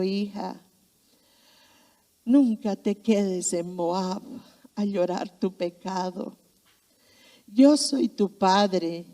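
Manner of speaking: slow, gentle fatherly reassurance; tender father. Retold or imitated. Father tending his daughter's wound, reassuring her slowly.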